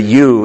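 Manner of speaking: "you" set apart and stressed; single firm stress on "you"; emphatic YOU. Shown as a demonstration. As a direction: hit "you" as the key word. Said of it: "is emphatic in the Greek".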